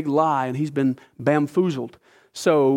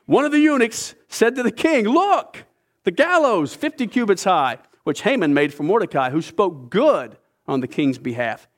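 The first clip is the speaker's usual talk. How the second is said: raised, declaiming reading voice; scripture reading; 3 semitones higher than usual. Acted. A preacher reads Esther seven to the congregation, declaiming. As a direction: read the passage out to the congregation.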